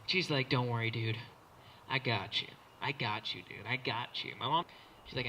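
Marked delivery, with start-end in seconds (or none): 0.5-4.3 low, soft reassurance; lightly voiced mom, hushed and low; reassuring mom. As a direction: calmly reassure your kid, low and soft. Mom reassures him, acted.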